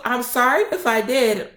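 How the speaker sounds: high, whiny imitated apology; tearful apology. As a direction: mimic her tearful sorry. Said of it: "And she started crying".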